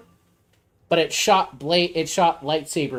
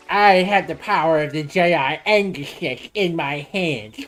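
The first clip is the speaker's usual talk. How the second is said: villain voice. Pretend. Mock Sith villain boast.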